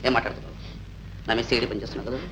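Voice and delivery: low, quiet accusation; menacing interrogation. Acted. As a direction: accuse softly and suspiciously, pitch dropped. Suspicious husband interrogates wife. (అనుమానంగా, లోగొంతుతో నిలదీస్తూ)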